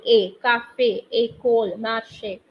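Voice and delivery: Café, école, marché with é said like "ay"; same closed "ay" vowel in Café, école, marché; shared A sound. Shown as a demonstration. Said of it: "All have same sound".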